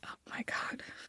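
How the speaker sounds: soft, unvoiced whisper.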